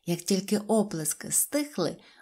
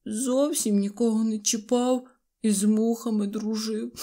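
put-on weepy voice; mock crying, raised pitch; tearful lament; 3 semitones higher than usual. A narrator's reading. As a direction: whimper it, acting upset. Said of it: "гірко заплакали".

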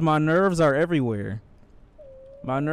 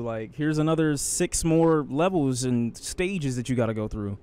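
mock taunting game. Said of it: "They could be like".

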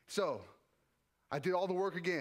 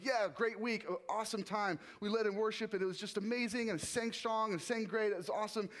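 upbeat high; 4 semitones higher than usual. Retold or imitated. Mimicking the highs.

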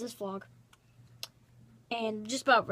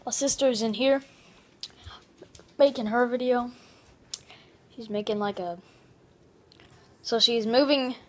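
loud; 7 dB louder than usual. Real, not acted. Loudly explaining sister's move.

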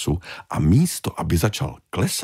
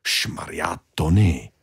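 exasperated big fish; slower than usual. Acted. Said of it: "vložila se do toho".

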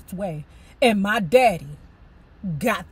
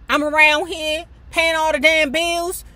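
loud higher griping; fed-up mom; 7 semitones higher, 6 dB louder than usual. Retold or imitated. Mother complaining about the bills, loud angry gripe. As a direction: vent like a tired mother.

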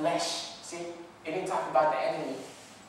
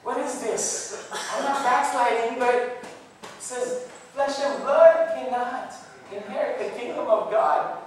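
higher, louder frustrated pleading; venting to himself, pitched up; exasperated inner cry; 8 semitones higher, 5 dB louder than usual. Retold or imitated. Talking to himself about his struggle, higher and louder in exasperation. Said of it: "I'm like".

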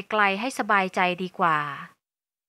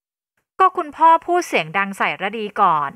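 slow, louder sulky comeback; defensive protest; 5 dB louder, slower than usual. Acted. Daughter excusing herself to her mother, defensive protest. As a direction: push the blame back on Dad.

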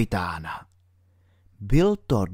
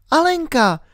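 put-on high girl's voice, worried; little girl Alenka. A narrator's reading. Alenka whispers her worry to herself, in a high girl's voice. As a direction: think it through as a small girl, much higher.

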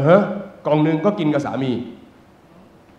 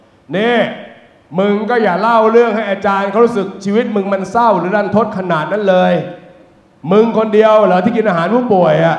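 sassy woman calling out; 4 semitones higher, 3 dB louder than usual. Retold or imitated. Woman calls out in room.

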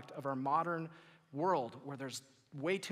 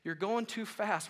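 slow, higher, measured urging; slow, spaced-out gentle advice; calming counsel; 5 semitones higher, slower than usual. Acted. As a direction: ease them to a halt, phrase by phrase. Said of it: "So first, Jesus is saying".

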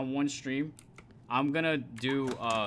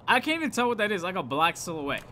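scared; 5 semitones higher, 6 dB louder than usual. Real, not acted. Frightened by the silhouette.

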